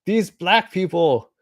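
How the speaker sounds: high, loud mock outrage; shocked outburst. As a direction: jump way up in pitch, loud and scandalized. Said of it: "and you're like".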